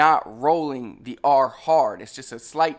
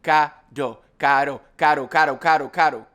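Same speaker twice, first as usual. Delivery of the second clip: speeding up. Shown as a demonstration. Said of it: "and then say it fast".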